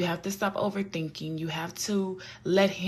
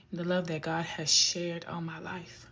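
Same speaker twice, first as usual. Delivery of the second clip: emotional whisper; 5 dB quieter than usual. Real, not acted. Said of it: "I'm getting emotional just thinking about it".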